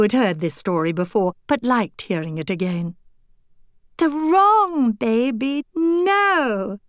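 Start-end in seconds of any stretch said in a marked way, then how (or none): 4.0-6.8 exclaiming. Acted. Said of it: "exclaimed Annabel".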